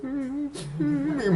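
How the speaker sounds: high, drawn-out mock whimper; put-on high whimpering; imitated child crying. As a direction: imitate a scolded child whining in tears. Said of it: "그럼 또 이제 막 울죠".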